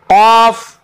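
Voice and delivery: गौद and वा recited as letter names. Shown as a demonstration. Teacher lists the heavy letters for students. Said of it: "कौन कौन से हरूफ हैं".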